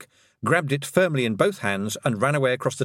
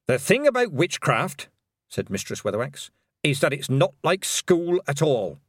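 put-on wise old witch; 3 semitones higher than usual. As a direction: teach it dryly. Granny Weatherwax voice.

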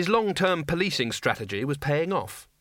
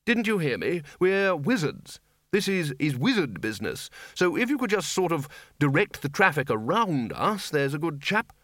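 higher-pitched, impatient wizard; lightly put-on exasperated authority; irritated senior wizard; 5 semitones higher than usual. Wizard chief to policeman, irritated and dismissive. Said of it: "He pointed irritably".

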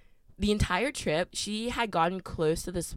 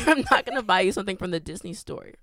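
laughing mock refusal; 2 semitones higher, 7 dB louder, faster than usual.

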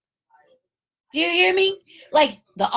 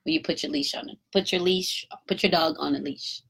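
asked kindly; 4 dB quieter than usual. Retold or imitated. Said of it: "I asked her kindly".

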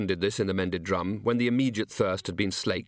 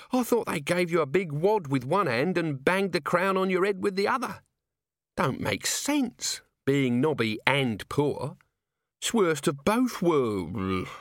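put-on drunk Nobby; 7 semitones higher than usual. A narrator's reading.

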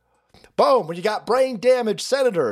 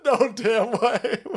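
slow disbelief; 6 semitones higher, much slower than usual. Real, not acted.

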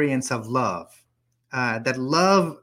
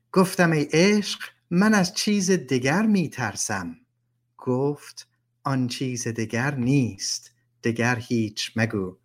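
persian poem recitation; 3 semitones lower, faster than usual. Acted. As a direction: recite the verse, landing gently on the end.

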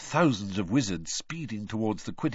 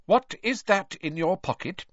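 stern; 11 semitones higher, 4 dB louder than usual. Acted. Mother interrogating her son.

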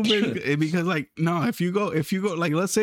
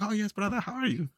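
put-on mirroring an Indian accent, softer; lightly mock Indian-accented reply; imitated Indian accent; 3 semitones higher, 5 dB quieter than usual. Customer answers the Indian clerk, mirroring his accent. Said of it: "like, how he said something".

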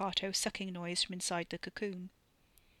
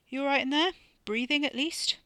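high, loud, rising question; raised voice, concerned check-in; calling in to check; 7 semitones higher, 6 dB louder than usual. Acted. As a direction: call through a wall to see if someone is okay. Calling to sister inside a cocoon.

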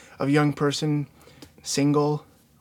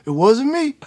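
high mock quote; 10 semitones higher, 7 dB louder than usual. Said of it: "He's like".

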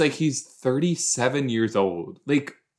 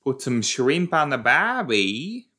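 mock Australian; 4 semitones higher, 3 dB louder than usual. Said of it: "So I should have said".

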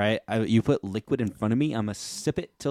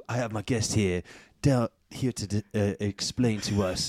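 stifled giggles; 2 semitones lower than usual. Real, not acted. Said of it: "I'm trying not to laugh".

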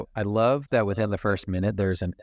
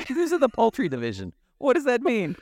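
much higher, fast, laughing incredulity; giddy disbelief. Real, not acted. Laughing to the co-host about the rooster's medal, high and giddy. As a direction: squeak it out in amused disbelief.

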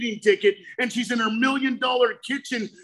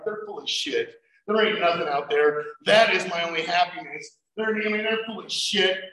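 grumbling scorn; 5 semitones lower than usual. Retold or imitated. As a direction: grumble to yourself in disbelief. Grumbling skeptic in early steps.

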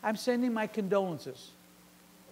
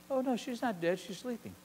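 soft, gentle, much quieter; calm correction; 2 semitones higher, 7 dB quieter than usual. Acted. Jesus quietly telling mourners the girl is only sleeping. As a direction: say it gently, almost to yourself.

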